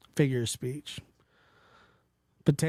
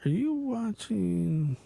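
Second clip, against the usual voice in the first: teasing question; 8 semitones higher, slower than usual. Retold or imitated. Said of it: "And then I'll be like".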